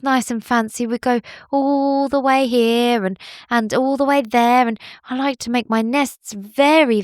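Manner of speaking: lightly voiced fussy little bird; a hint of a fancy, sad bird; bowerbird voice. Bowerbird telling Billy about its lost gems, lightly voiced.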